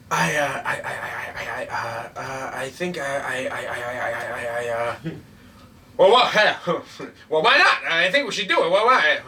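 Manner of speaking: lightly mock an old man losing his words; Joe Biden impression. Showing his co-host how Biden talks, stammering mock impression. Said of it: "This is, this is Joe Biden right here".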